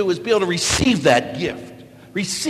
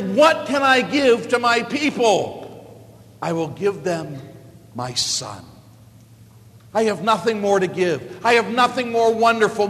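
God the Father; 3 semitones higher than usual. Acted. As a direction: give your son as the greatest gift.

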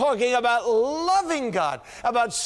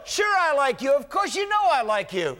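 exasperated reply; 5 semitones higher than usual. Acted. Bill answering pastor impatiently.

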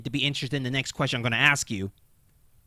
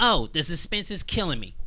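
sarcastic. Acted. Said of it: "he says sarcastically".

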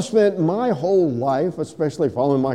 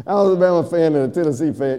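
quick teaser; 3 dB louder, faster than usual. Shown as a demonstration. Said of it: "you don't have to pay extra for this one".

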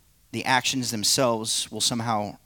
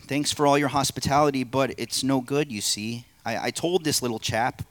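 the man, apologetic; 3 semitones higher than usual. Acted. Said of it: "play the narrator and three parts".

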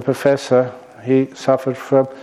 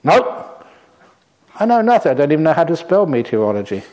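put-on old sailor; 3 semitones higher than usual. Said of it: "You must know a lot".

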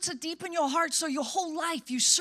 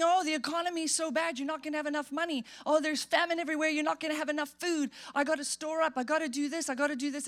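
worried chatter; faster than usual. Retold or imitated. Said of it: "because they're saying".

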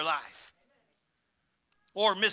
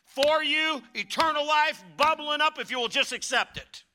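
Jesus offering life; 6 semitones higher, 4 dB louder than usual. Acted. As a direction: call it out like a promise. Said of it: "He says".

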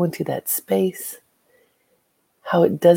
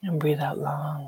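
whispered breathing cue; 7 dB quieter than usual. Acted.

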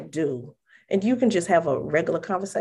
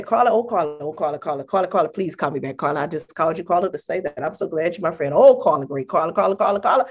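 mock dramatic call; faster than usual. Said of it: "I don't say".

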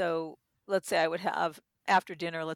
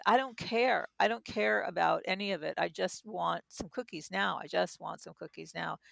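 put-on whiny inner child. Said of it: "That young part of me said".

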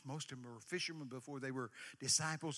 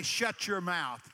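loud, blunt Texas scolding; 10 dB louder, much slower than usual. Retold or imitated. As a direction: tell the wind off Texas-style. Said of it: "In Texas we'd say".

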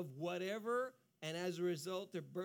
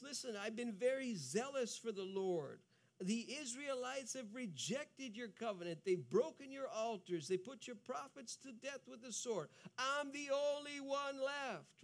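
retold at normal pitch and level; plain Elijah complaint; 3 semitones higher than usual. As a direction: tell the complaint calmly. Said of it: "Elijah says the same thing".

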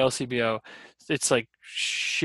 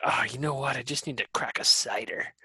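mock whisper; 4 dB quieter than usual. Imagined quote, whispered.

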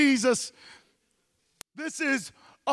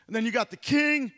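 usual speaking voice

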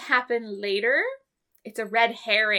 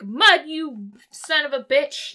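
slow, louder mock-angry Scotty; 2 semitones higher, 5 dB louder, slower than usual. Scotty greeting Mudd, in a slow mock-angry voice. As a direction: play Scotty spitting out a mild mock curse. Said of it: "and he's like".

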